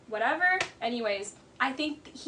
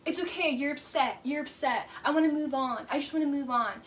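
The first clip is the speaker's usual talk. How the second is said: mock condescending. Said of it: "Schwartz is so condescending".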